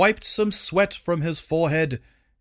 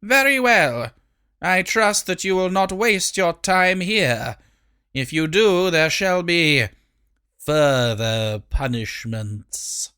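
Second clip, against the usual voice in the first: threatening queen; 4 semitones higher than usual. Acted.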